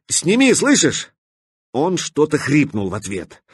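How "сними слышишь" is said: high urgent shout. A narrator's reading. Katya shouting at the stalker to drop the container. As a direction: yell it at him, commanding. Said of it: "крикнула Катя".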